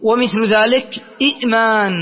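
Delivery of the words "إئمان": إئمان with short i cut by a glottal stop; original two-hamza form. Shown as a demonstration. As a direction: stop hard after the first syllable of إئمان. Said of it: "الثانية أيضًا ساكنة".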